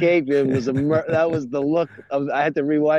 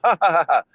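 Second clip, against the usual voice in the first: fake slapstick laugh; 5 semitones higher, faster than usual. Mimics slapstick comedy laughter.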